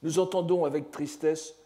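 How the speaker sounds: measured, deliberate reading of a poem; poem read aloud by a lecturer; poem recitation. Acted. Reads out translated poem.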